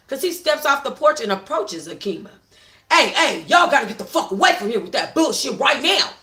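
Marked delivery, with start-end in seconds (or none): 2.9-6.1 loud commanding warning; firm warning. Acted. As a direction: order them off firmly. Juice warning women off.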